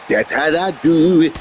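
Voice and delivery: lisping country drawl. Retold or imitated. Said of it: "lisping country off".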